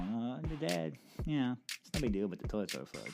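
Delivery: offhand, as if it's nothing; centered and calm. Retold or imitated. Daughter casually telling dad, unbothered and calm. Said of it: "Well, at least she's centered".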